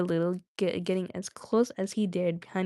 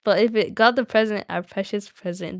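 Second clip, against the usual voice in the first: lightly voiced Gollum, more emphatic; Gollum's accent. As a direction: put on the creature's accent. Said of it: "Do I have to say all in his accent?".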